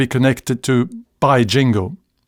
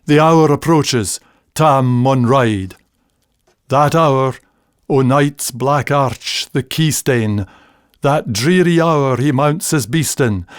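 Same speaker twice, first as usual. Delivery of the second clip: reciting Tam o' Shanter in broad Scots; poem recital. Acted. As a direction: recite the old poem with weight.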